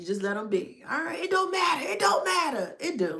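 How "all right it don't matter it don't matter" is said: put-on, high-pitched yell at full voice. In a back-and-forth argument over whether it matters, yelling. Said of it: "Why are you yelling?".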